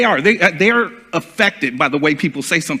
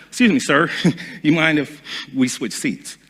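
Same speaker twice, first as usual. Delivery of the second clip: softer, courteous and friendly with a little laugh; polite request; 5 dB quieter than usual. Shown as a demonstration. Asking a stranger for the seat, politely and softly. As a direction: ask it nicely, like a favour. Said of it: "Same terminology, different phrase".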